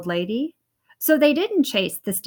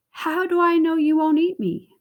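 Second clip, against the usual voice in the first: higher wary question; suspicious cheese man; 7 semitones higher than usual. Acted. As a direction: doubt the fox.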